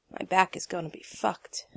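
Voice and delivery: whispered, grumbling under the breath; muttered groan. Acted. Jensen to Jared, dreading a night on the ground: unvoiced groaning mutter. Groaning about sleeping without bag.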